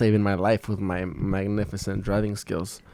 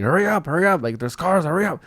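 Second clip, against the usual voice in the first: pushy, higher hurry-along; impatient hurrying; 5 semitones higher than usual. Retold or imitated. Driver rushing his visiting mom out at the airport, impatient. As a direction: rush her out of the van. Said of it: "being kind of a dick to her".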